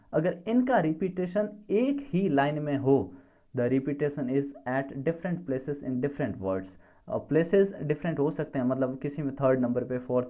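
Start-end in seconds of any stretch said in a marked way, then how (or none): 3.6-6.7 very slow, word by word; spaced-out dictation read. Shown as a demonstration. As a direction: dictate it so students can write. Teacher dictating a definition.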